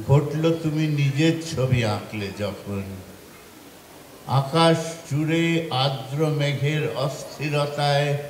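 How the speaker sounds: measured recital with pauses between lines; poetry recitation. Acted. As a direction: recite it line by line as verse. Recites own poem to audience. (কবিতা আবৃত্তির ভঙ্গিতে)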